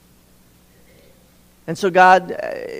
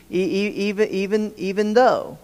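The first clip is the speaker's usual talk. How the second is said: stuttering; 2 semitones higher than usual. Shown as a demonstration. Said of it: "the blue word there is though".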